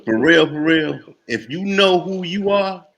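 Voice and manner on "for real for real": loud, insistent listen, listen; forceful interruption. Real, not acted. Brother cutting in to disagree, loud and insistent. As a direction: cut in hard and make them hear you.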